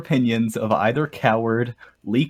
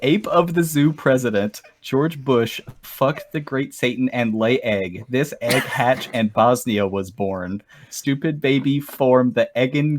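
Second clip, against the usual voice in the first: lightly hammed broken English; 8 dB louder, slower than usual. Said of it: "the official lyrics".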